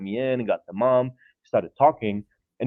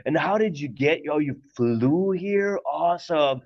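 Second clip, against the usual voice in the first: imitating the redneck dad; 6 semitones higher than usual. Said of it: "so he was like".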